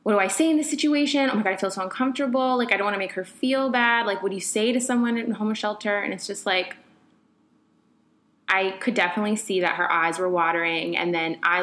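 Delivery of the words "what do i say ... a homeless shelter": fast, flustered, higher inner panic; rushing through her thoughts, unsure what to say; panicked inner voice. Retold or imitated. Remembering her panic on the metro, fast and flustered. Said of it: "And I just was like".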